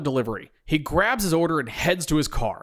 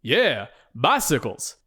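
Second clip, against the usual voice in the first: insistent; slower than usual. Acted. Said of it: "insists D'Angelo".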